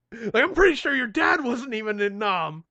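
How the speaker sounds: hammed-up correction; exasperated shout. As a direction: argue it loudly, fed up. Acted quarrel, exasperated friend.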